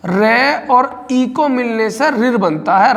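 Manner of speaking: slow, each part laid out for students; slow dictation pace; slow teaching demo. Shown as a demonstration. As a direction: spell it out slowly for the class. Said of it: "रे में तो हलंत लग रहा है".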